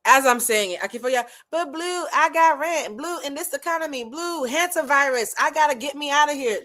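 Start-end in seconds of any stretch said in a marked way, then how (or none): 1.5-6.6 high-pitched mock pleading; put-on high whine of an objecting client; pleading follower. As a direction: play the worried follower, pitched way up. Voicing worried followers objecting.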